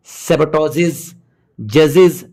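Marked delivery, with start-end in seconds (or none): 1.6-2.2 short i and buzzing z ending जजेस; correct "iz" ending. Shown as a demonstration. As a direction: say जजेस with "iz" at the end. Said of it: "ईएस को इज पढ़ेंगे".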